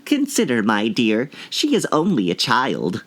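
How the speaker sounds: lightly voiced meek king, a touch of timidity. A narrator's reading. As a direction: gently plead with the queen. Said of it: "timidly said".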